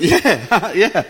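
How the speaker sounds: sheepish mock agreement; laughing fake agreement. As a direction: fake enthusiasm through a laugh. Retold fake approval of shoes.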